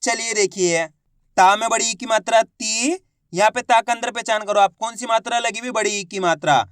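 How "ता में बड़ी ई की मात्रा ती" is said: name the parts, then "ती" with rising long ई; spelling out syllable. Shown as a demonstration. Teacher showing how one letter is pronounced, spelling it out to "ती". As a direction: end on a stretched, rising "ती". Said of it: "उच्चारण किस तरीके से किया जाता है".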